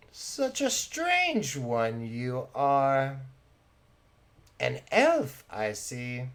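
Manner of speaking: slow, musing theatrical lady; Thelma, curious appraisal. Acted. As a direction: size up a stranger with lingering curiosity. Thelma sizes up Baltan.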